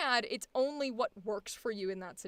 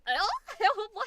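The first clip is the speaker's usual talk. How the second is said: mock surprise; 10 semitones higher, 6 dB louder than usual. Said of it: "I'm like".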